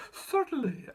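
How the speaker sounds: high, slow squeaky little mouse voice; squeaky mouse queen. A narrator's reading. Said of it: "answered the Queen".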